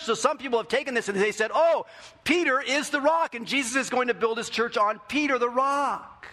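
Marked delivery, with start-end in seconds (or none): 1.5-6.3 higher, louder mocking tone; mock know-it-all. Pastor mimics people who misread the verse, mocking. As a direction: parody the confident misreading. Mock quoting others' view.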